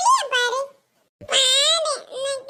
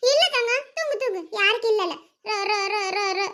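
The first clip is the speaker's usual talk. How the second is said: lulling to sleep; 4 semitones lower than usual. Acted. Mother lulling child to sleep.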